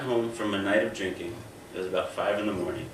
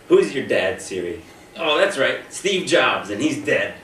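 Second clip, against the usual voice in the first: mean taunting; 3 semitones higher, 5 dB louder than usual. Retold or imitated. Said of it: "saying the worst things I could think of".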